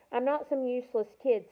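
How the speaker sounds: a touch of defiant protest; arguing. Acted. Girl arguing with the wary fighter, mildly defiant. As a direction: push back at the doubter. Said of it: "Samira argued".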